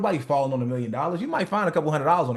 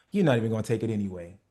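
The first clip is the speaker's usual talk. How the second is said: low, fast, resigned; defeated mumble; 5 semitones lower, faster than usual. Retold or imitated. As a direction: sell it like you expect a no.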